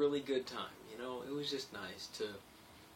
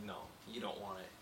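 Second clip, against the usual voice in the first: serious advice; 6 dB quieter than usual. Retold or imitated. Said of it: "he's like".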